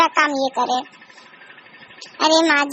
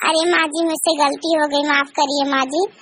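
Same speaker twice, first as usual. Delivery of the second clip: apologetic; 2 semitones lower than usual. Acted. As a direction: beg forgiveness humbly. बहू माफ़ी माँगती है. (माफ़ी माँगती सहमी बहू)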